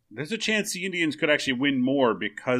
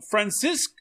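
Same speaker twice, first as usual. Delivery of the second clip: high, loud, drawn-out mock-Irish accent; funny Irish accent; 10 semitones higher, 7 dB louder, slower than usual. Offering his best name to the co-host, hammed-up Irish accent. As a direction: stretch the name slowly into a cartoon Irish brogue. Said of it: "that funny accent".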